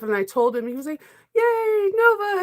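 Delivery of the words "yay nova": mock cheer. Husband cheers her on, retold.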